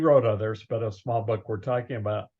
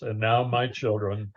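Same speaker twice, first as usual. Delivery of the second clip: lightly imitated deep, grandfatherly voice; a hint of a deep-voiced elder; Doctor Forrest Shaklee; 3 semitones lower than usual. Fondly recalling a grandpa-like mentor addressing his children, lightly deepened voice. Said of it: "in a very deep voice".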